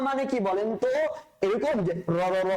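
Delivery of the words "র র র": র stuttered out as separate beats, র, র, র; the wrong way, chopping র into repeats; wrong repeated ra. Shown as a demonstration. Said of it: "এভাবে করে পড়বেন আপনি? অবশ্যই না". (ভুল উচ্চারণ, র-কে বারবার আলাদা করে বলা)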